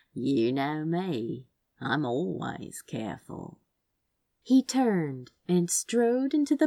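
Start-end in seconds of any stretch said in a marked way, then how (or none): 0.1-3.6 crooked smile. Acted. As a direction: smile through it, teasing him gently. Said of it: "mouth quirked in a crooked smile".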